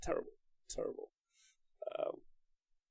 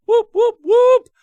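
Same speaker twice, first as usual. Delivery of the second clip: much higher, much louder whoops; excited cheer; 17 dB louder, much slower than usual. Real, not acted. Streamer cheering a viewer's resubscription, high loud whoops. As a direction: cheer like the team scored.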